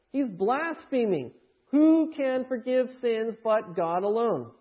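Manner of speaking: slow, weighty accusation; slow accusing scribes. Retold or imitated. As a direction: lay out the charge slowly and sternly. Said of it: "They say".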